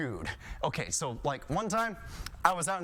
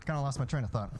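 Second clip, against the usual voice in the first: usual speaking voice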